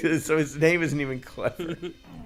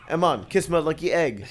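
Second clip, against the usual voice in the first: Cool Runnings voice. Retold or imitated. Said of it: "I like to do the voice".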